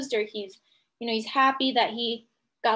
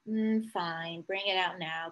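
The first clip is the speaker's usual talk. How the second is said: soft, deflated mm, fine; resigned sigh; 5 semitones lower, 6 dB quieter, slower than usual. Retold or imitated. Peter gives up waiting for Amy, soft and resigned. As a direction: give in quietly with a sigh. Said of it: "he said".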